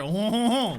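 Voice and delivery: mock French throaty "oh, oh, oh"; lump-in-throat "oh". Shown as a demonstration. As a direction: honk it from the throat like a caricature Frenchman. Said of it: "with a lump in your throat".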